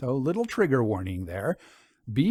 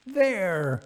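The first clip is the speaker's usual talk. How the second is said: there, I told you so; a hint of gleeful triumph; triumphant cry; 5 semitones higher than usual. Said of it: "cried Miss Van Rensselaer".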